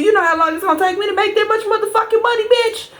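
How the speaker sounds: outraged squeal building up to the last word; rising outrage. Retold or imitated. Ranting at the bank's demand.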